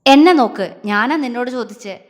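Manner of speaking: loud, sharp order to look at him; angry command. Acted. Husband orders his hesitant wife to look at him, loudly. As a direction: snap at her to face you.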